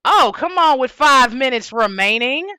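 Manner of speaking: loud, high announcer call of "five minutes remaining"; Halo announcer. Real, not acted. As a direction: boom it out like a game announcer. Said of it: "Why do I sound like the Halo announcer?".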